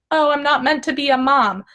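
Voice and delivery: lightly acted inner lament; mock complaint. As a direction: replay the negative thought dramatically. Replays her dramatic negative thought.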